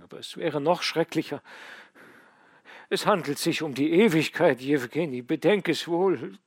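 put-on an old father begging for his son's soul; pleading father. A narrator's reading. Old father pleading with dying son to take communion, earnest. Father urges last rites.

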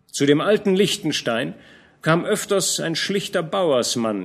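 old general scolding a young knight, lightly voiced; lightly voiced old commander. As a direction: admonish the young man gently but firmly. Fronsberg questions Georg.

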